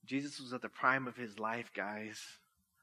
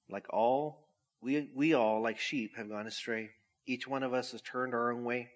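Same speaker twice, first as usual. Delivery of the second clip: scripture reading; 2 semitones lower than usual. Acted. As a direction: read it out with weight and care. Reads Isaiah to congregation.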